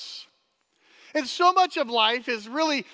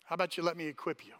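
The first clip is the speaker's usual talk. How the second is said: God's voice; 8 semitones lower, 11 dB quieter, much faster than usual. Retold or imitated. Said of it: "God's like".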